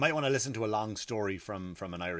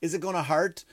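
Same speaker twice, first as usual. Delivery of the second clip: higher-pitched mock anxious child; nearly crying; 5 semitones higher than usual. Repeating his son's question to the nurse, mock near-tearful. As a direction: imitate a little boy's worried question, rising. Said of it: "Little fella crying nearly".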